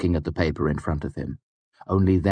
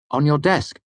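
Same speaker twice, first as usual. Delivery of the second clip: much higher, louder cheerful voice; bright Bast; 10 semitones higher, 4 dB louder than usual. Acted. Bast cheerfully helping his master: high bright chirpy voice. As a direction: chirp it helpfully. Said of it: "Bast said brightly".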